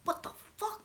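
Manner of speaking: shocked reaction. Retold or imitated. Acts out own shocked reaction.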